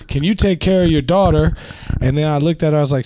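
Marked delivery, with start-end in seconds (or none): 0.1-1.6 retold yell with raised pitch; mild mock yell. Grandmother scolding her son about his crying daughter, mild mock yell. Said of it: "My mother then yells".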